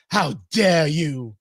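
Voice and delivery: slow, drawn-out mock of Greta's scolding; Greta Thunberg voice. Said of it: "You gotta say it in Greta Thunberg voice".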